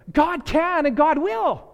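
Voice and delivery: slow, ringing stress on "will" in "God can and God will"; accent on God will. Shown as a demonstration. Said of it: "putting the accent on the right syllable".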